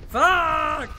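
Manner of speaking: sharp high angry outburst; frustrated curse. Real, not acted. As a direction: blurt it out in frustration. Payload stuck, frustrated outburst.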